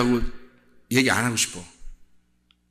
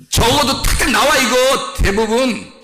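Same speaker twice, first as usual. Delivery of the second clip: raised, high-pitched pulpit voice; emphatic preaching; 9 semitones higher, 5 dB louder, slower than usual. Real, not acted. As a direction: burst out emphatically to the congregation. (목소리를 높인 강한 설교조)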